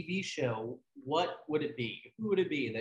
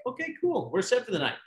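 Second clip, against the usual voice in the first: relieved; 5 semitones higher, 4 dB louder, faster than usual. Retold or imitated. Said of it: "So I'm like".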